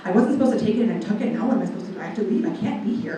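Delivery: fast retold ramble, words tumbling out; rushed run of worried thoughts; panicked rambling. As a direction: ramble in a mild mock panic.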